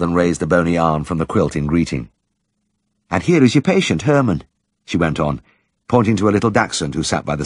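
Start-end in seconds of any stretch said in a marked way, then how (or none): 3.1-4.4 high, gentle village woman; shy woman's voice. Acted. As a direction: lift the voice for the shy wife. Mrs Cundall voiced.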